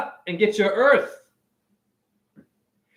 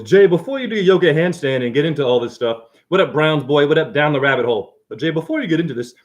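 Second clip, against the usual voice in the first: smart voice; 3 semitones lower than usual. Acted. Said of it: "I'm gonna speak in my smart voice".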